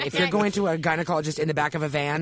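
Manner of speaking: laughing shout. Real, not acted. Telling friends about a gynecologist in a van, laughing shout. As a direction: crack up and shout the end.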